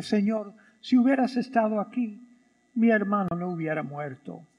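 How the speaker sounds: said quietly and resigned, voice dropping; a soft, sorrowful reproach to the Lord; grieving sister speaking gently; soft, subdued plea. Shown as a demonstration. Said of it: "Eso es una manera de decirlo".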